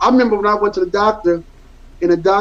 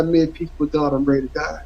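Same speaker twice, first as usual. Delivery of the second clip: resigned, quiet; 3 semitones lower, 4 dB quieter than usual. Retold or imitated. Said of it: "I told her, I said".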